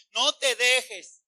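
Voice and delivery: slow, drawn-out instruction; imitated mother's urging. Elenita to her child, slow urging. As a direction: firmly stretch out the advice. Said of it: "Elenita le dice".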